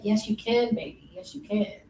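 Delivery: softly voiced, imitated mom encouragement; reassuring mother. Mother encourages child learning to tie shoes, soft reassurance. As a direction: gently coax a small child. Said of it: "She's like".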